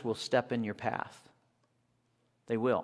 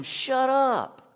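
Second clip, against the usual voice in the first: mock crowd snapping; 11 semitones higher, 4 dB louder than usual. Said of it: "The crowd was telling him".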